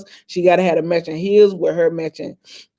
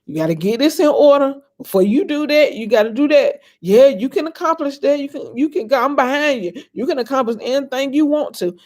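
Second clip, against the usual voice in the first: encouraging dad; 6 semitones higher than usual. Retold or imitated. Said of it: "he would tell me".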